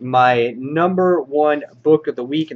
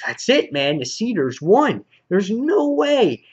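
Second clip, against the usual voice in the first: rising into a slow, much higher wail; mock despair; 7 semitones higher than usual. Reviewer voices the beaten hero, mock despairing wail. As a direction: stretch out the last words in hammed-up defeat.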